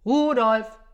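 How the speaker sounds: long, high, loud holler; insistent shout. Acted. Santa summoning his missing reindeer, hollering. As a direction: holler the name, drawn out.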